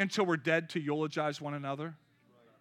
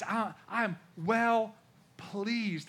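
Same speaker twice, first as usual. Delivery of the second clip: tender affirmation; 2 semitones higher, much slower than usual. Acted. God's words slowed.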